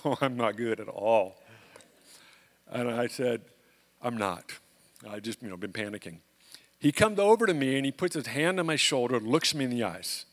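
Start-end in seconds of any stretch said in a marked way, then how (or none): 0.1-1.4 a hint of a shaken inner voice; inner realization. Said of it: "that's when I knew". 4.0-6.2 softer, lower, almost whispered admission; quiet confession. Retold or imitated. Answering the septic worker, softly admitting panic.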